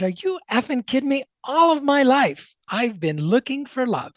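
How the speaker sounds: retold outburst. To the seminar speaker, a retold shocked outburst. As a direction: burst out, stunned and pleading.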